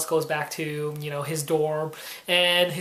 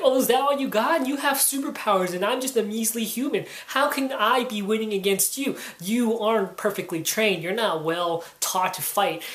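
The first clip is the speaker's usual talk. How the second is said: mock taunting; 4 semitones higher than usual. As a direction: needle him like a smug uncle. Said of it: "starts taunting him".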